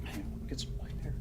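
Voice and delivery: hushed whisper. Real, not acted. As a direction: whisper it, creeping closer. Creeping toward smell in house.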